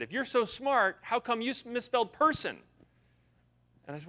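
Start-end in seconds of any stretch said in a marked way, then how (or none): 0.0-2.6 high, pushy heckler voice imitated; indignant audience member. Front-row guy heckles the speaker, higher and louder. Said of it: "stood up and he said".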